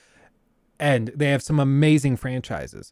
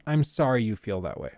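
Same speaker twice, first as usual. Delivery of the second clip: passive-aggressive; 5 semitones lower, 6 dB quieter than usual. Retold or imitated. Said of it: "it's that passive aggressive thing".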